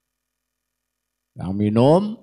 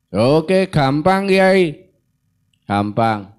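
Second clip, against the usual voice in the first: eager devil; 2 semitones higher, 4 dB louder, much slower than usual. Acted. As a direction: toss it off like an easy deal. (setan menyanggupi dengan ringan)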